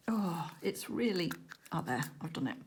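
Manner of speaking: straining at a tight lid; strained breath, twisting a lid; opening a stuck jar. Real, not acted. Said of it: "can't open this lid".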